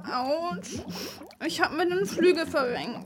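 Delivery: tearful, quiet moaning; whimpering in pain. Acted. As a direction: speak through the hurt, near tears. Angel hurt and stuck.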